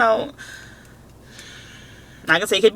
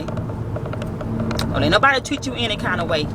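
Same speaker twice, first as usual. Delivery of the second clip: slow, drawn-out saying; 3 dB quieter, slower than usual. Retold or imitated. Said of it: "That's her saying".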